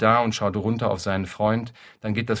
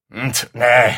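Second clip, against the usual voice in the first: tut and refusal; 2 semitones higher, 10 dB louder than usual. Acted.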